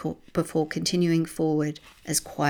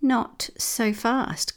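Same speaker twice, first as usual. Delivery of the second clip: menacing villain; 7 semitones higher, much slower than usual. A narrator's reading. Villain's voice from darkness.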